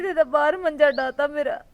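loud, hurt complaint; upset outburst. Acted. Daughter cries out to aunt about being thrown out, loud and hurt. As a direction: blurt it out loud, wounded.

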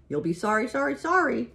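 high, rising goose taunt; called warning. A narrator's reading. Goose warning Wilbur against captivity, high-pitched call. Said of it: "called the goose".

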